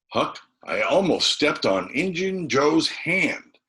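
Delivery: put-on high, slow, hushed-up boy's confession; awed boy. A narrator's reading. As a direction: let the horror sink in slowly. Tom voiced, high slow.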